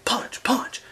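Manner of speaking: whispering punch, punch under the breath; quietly drilling moves at work; whispered drill. Retold or imitated. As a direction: mutter the drill softly to yourself. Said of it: "I'd be like".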